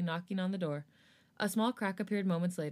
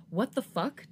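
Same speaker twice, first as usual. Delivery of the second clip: angry growl; 4 semitones higher, slower than usual. Acted. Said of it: "Jongin angrily growled".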